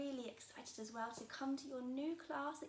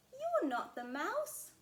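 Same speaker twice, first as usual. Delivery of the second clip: louder, slow accusing little monster; bold Gruffalo child; 10 semitones higher, 8 dB louder, slower than usual. Acted. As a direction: tell the snake off boldly. Child confronts owl.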